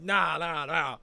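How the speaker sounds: loud, high repeated objection, imitated; mock protest. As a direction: wave it off loudly as the friend. Friend objects in retold quarrel.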